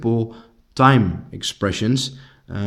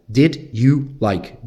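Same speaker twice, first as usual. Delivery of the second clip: slow model question; much slower than usual. Shown as a demonstration.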